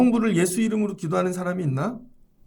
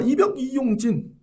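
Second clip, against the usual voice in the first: korean military style; 5 semitones higher, slower than usual. Retold or imitated. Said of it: "지나가는데 째려봐".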